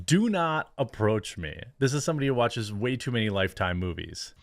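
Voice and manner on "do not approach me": mild mock yell, pitch raised, drawn out; mock scream. Host imitating the woman from the clip, mock scream. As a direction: slowly mimic her warning, only half-shouted. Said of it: "And she screams at him".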